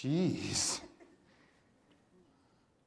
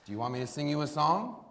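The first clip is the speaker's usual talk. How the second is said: soft offer; 5 semitones lower, 8 dB quieter, faster than usual. Acted. Offering to sing softly.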